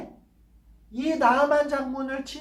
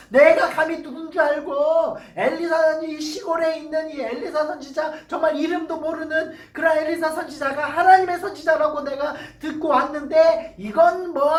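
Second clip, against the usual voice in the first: indignant general. Acted. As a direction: scoff as a proud man insulted. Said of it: "이러면서 막 화를 냈어요".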